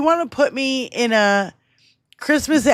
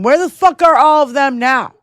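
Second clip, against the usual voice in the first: louder, higher, demanding; angry call-out; 4 semitones higher, 4 dB louder than usual. Real, not acted. Host calling out hypocrites, angry shout.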